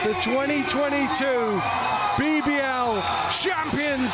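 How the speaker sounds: champions announcement. Real, not acted. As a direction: proclaim the winners like a trophy ceremony.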